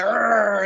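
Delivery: mock menacing "arr"; wordless pretend snarl; imitated tough-guy growl. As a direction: growl like a tattooed tough, playfully. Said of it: "like, piercing, going".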